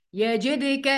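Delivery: "يجدك" with a small bounce on the d; qalqala on daal. Shown as a demonstration. Teacher pointing out the still daal, "يجدك" with echoed d. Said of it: "يبقى دال مقلقلة".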